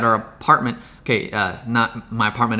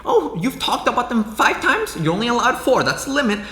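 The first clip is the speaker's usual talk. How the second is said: mocking whiny commenter; 9 semitones higher than usual. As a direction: mimic a petty nitpicker, up high. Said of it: "It's like".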